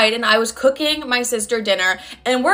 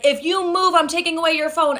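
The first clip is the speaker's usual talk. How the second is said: threatening father; 5 semitones higher than usual. Retold or imitated. Voices father threatening her.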